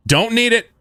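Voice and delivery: high, loud excited yell; excited shout. Real, not acted. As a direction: shout it out gleefully.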